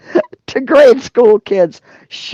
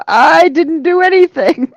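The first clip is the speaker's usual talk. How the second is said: higher-pitched mock protest; mock innocent; 4 semitones higher than usual. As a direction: read it out playing innocent. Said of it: "you're so innocent".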